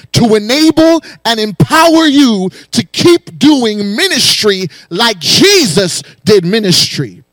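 rising, rhythmic preacher's cadence; full-force preaching. Acted. Pastor rousing the congregation, full-force preaching. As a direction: preach it, driving each line harder.

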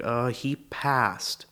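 slow, hesitant, careful delivery; evasive euphemism. Acted. Explaining uncle's absence at the wedding, evasively. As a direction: draw it out, carefully avoiding the word. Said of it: "you have to walk around it".

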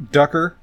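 "Ducker", Tucker with a D in front; nervously muddled name. Retold or imitated. Shy Dale gives Allie his name as "Ducker", nervously muddled. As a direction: blurt "Ducker", two names mixed together. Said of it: "He says a bunch of different versions".

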